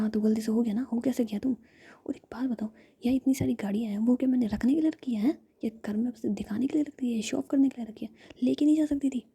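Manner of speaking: a hint of angry big sister, hushed and loud at the end; whispered scolding. Jiya snapping at injured Ruhi, whispered angry scolding. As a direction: scold her in a harsh whisper. Jiya lectures about the accident.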